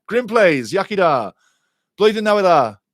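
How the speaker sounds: loud, high cheering greetings; excited shouting. Real, not acted. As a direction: shout the Welsh happily. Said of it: "sorry for shouting".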